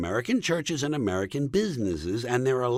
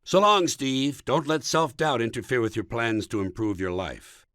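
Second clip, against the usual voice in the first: mock-earnest goodbye. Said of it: "in a realistic manner".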